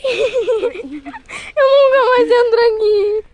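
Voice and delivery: slow laugh-crying; half laugh, half sob; laughing through tears. Real, not acted. Laugh-crying after escape.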